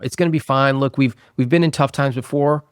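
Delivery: mild acted reassurance; reassuring. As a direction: imitate someone talking a partner out of worry. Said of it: "trying to reassure her".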